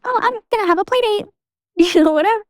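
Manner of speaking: very high, put-on childlike voice; excited little kid. Child telling dad about play date, high mock excitement. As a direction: imitate a child proudly announcing happy news.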